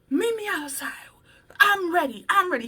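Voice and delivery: challenging to fight. Retold or imitated. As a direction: call him out, ready to brawl. Coworker wanting to fight.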